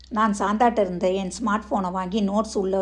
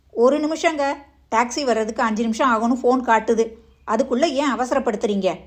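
wife's voice; 3 semitones higher, 3 dB louder than usual. Acted. Wife answers husband, voiced higher.

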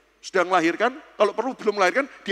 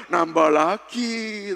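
mock coaxing; much slower than usual. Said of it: "nanti cuma bilang gini".

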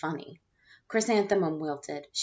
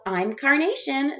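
higher, slow proud claim; eager; 7 semitones higher, 4 dB louder, slower than usual. Acted. Rita proudly claiming a flower name, higher and slow. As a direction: announce it proudly.

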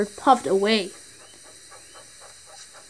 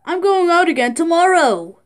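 proud little engine; 5 semitones higher than usual. Acted. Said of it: "Edward told the other engine".

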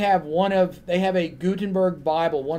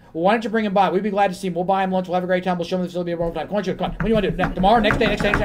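mildly eager, quickening offer; imitating a librarian who can hardly wait; eager gushing; much faster than usual. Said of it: "the guy just goes to pieces".

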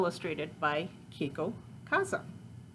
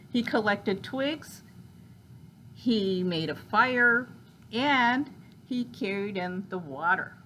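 story narration; 3 semitones higher, 4 dB louder than usual. A narrator's reading. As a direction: draw out each action for young listeners. Reads picture book aloud.

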